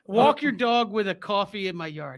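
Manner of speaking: mock Boston accent again; playful Boston accent. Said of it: "Give it a shot, Christian".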